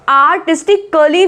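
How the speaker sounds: आर्टिस्टिकली with an extra vowel, "ka-lee"; wrong pronunciation demo. Shown as a demonstration. Teacher showing learners what not to say, mispronounced. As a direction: split the क्ली of आर्टिस्टिकली into "kuh-lee". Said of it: "भी नहीं बोलेंगे".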